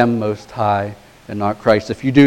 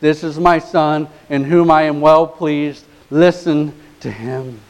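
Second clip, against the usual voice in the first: voice of God the Father; 4 semitones higher than usual. Retold or imitated. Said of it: "he says in an audible voice".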